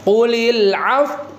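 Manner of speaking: Qulil af- with lips pushed forward, slow; lips pursed. Shown as a demonstration. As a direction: round the lips into a pout on af-. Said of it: "kasih isyarat monyong ya".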